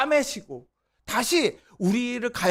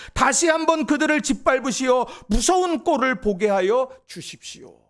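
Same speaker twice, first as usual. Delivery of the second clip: earnest, louder reading of a psalm-like lament; scripture reading; 3 semitones higher, 4 dB louder than usual. Acted. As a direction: read the lament with pleading fervour over music. Reads Jeremiah aloud, music behind.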